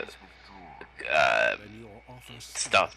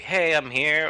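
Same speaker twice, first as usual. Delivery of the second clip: high-pitched hello call; cheery greeting; 10 semitones higher, slower than usual. Retold or imitated. Streamer guessing Denny's chat tone, cheery greeting. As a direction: announce your arrival, pitched up. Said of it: "I don't know if that's a".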